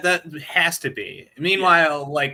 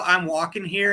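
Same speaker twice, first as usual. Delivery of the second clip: raised-voice New York heckle; a higher, half-shouted jibe; mock shout; 5 semitones higher, 3 dB louder than usual. Shown as a demonstration. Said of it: "just shout".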